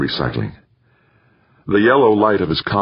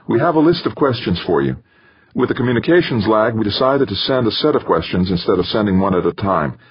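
higher-pitched controller briefing over the radio; brief the astronaut, pitched up a little; mission controller; 5 semitones higher than usual. Acted.

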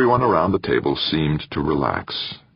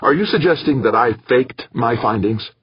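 hissed; 8 semitones higher, 3 dB louder than usual. A narrator's reading. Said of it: "Molina hissed".

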